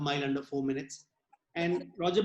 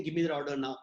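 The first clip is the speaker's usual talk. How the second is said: slightly lowered commanding tone; 4 semitones lower, faster than usual. Shown as a demonstration. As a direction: let the voice sink on "Give me that order now". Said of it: "your voice modulation should go a little lower".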